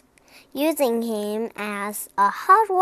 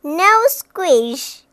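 higher, louder exclamation; excited storybook character; delighted cry; 4 semitones higher, 6 dB louder than usual. A narrator's reading. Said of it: "he cried".

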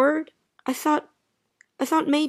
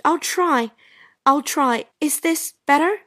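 trying louder. Acted. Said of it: "Can't you talk louder or something?".

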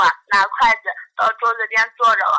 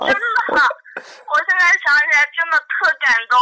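choked up, voice wavering with real emotion; fighting back tears as she remembers; genuinely touched, a catch in the voice; moved to tears; 3 semitones higher, slower than usual. Real, not acted.

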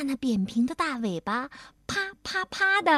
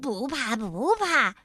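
reassuring. Acted. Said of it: "跳跳安慰他".

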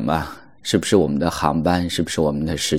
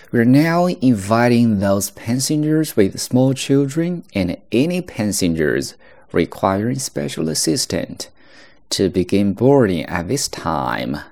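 airport announcement; 5 semitones higher, slower than usual. Shown as a demonstration. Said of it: "所以这是第一句".

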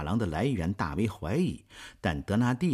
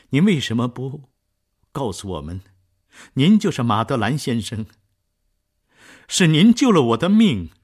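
much louder, higher urgent plea; overwhelmed with gratitude; impassioned outburst; 5 semitones higher, 11 dB louder than usual. Acted. Marius to Jean Valjean, loud impassioned gratitude.

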